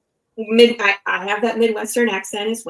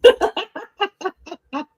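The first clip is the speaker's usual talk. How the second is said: mock incredulous; 11 semitones higher, 6 dB louder than usual. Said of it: "I was like".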